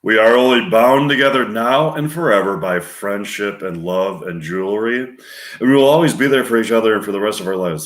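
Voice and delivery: storyteller, swelling on the key words; narrator. Acted. Narrator telling of lifelong friendship, earnest storytelling. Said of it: "narrator telling the story".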